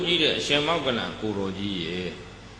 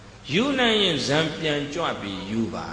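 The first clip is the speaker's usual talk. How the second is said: slow challenge; 3 semitones higher than usual. Retold or imitated. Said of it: "တထေးက ဘာပြောလဲဆိုတော့".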